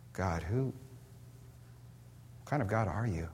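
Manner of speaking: slow, soft, hushed wonder; hushed awe. Acted. Paul asking God in slow, hushed awe. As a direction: barely breathe the question out.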